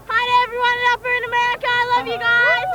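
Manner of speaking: put-on bright, fast American accent. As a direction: gush it like an American tourist. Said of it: "we're gonna hear it in American".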